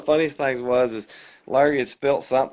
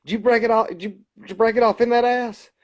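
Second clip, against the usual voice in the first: hammed-up Leon; 8 semitones higher than usual. Acted Leon line, excited quote.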